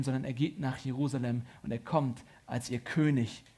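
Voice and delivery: ordinary talk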